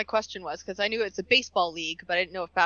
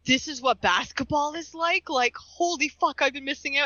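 retold amazement; 5 semitones higher than usual. Retelling own awe after Globetrotters game.

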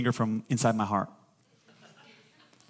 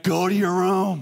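louder, higher parent command; louder repeat; 5 semitones higher, 5 dB louder than usual. Shown as a demonstration. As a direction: say it again, firmer and louder. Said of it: "Then you're like".

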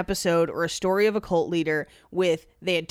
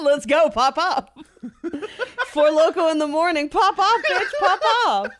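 hyped-up shout; 8 semitones higher, 4 dB louder than usual. Pretend. Hyping up a drinking joke.

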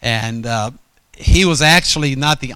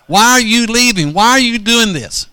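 raised, heated scolding, pitched higher; higher heated half-shout at the old pastor; retold angry rebuke; 5 semitones higher than usual. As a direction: scold him like you're reliving the anger. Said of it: "and I was so angry".

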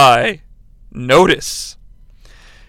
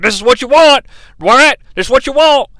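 lightly mocking fed-up commentator, a little louder; 4 semitones higher, 3 dB louder, faster than usual. Imitating a commentator fed up with hardcore fans, mildly exasperated. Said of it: "He's clearly fed up with that type of shit".

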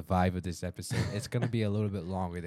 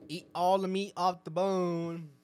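put-on slow, higher old grandma voice; lightly voiced grandma, drawn out; 8 semitones higher, slower than usual. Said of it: "My grandma always taught me".

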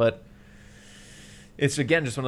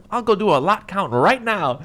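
higher, louder, slow fake-casual excuse; mock nervous cover; 9 semitones higher, 9 dB louder than usual. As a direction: stall as if nothing's wrong. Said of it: "he's like".

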